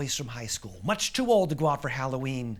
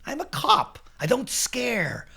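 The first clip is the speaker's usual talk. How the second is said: high, loud boast, slowing for the last words; loud, drawn-out bravado; blustering cop; 10 semitones higher, 6 dB louder, slower than usual. Acted. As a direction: puff it up like a fearless officer. Policeman boasts to Lance.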